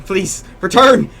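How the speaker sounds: slow loud high plea; scream. Acted. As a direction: call out desperately. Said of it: "Just scream at".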